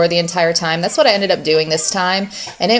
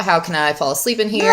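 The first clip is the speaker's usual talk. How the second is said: voicing the baby; faster than usual. Voicing baby's struggle.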